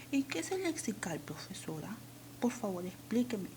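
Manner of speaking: a hint of a pupil asking the teacher; lightly voiced student. Student asking the teacher to explain lexical, lightly acted pupil voice. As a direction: lightly act a student's pleading question.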